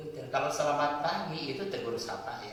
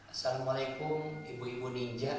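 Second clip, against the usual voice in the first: mocking greeting. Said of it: "ini kan mengejek".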